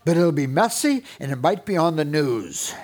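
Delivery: mock threat hollered up the stairs; a half-joking loud threat, slowing on the stairs; hollering threats. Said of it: "hollering threats up the stairs".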